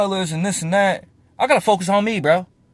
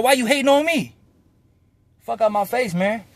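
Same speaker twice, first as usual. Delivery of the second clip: heated, emphatic comeback at haters; indignant boasting rant; worked-up rant; 3 semitones higher, 4 dB louder than usual. Real, not acted. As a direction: fire back at the haters, voice raised. Ranting back at hateful commenters.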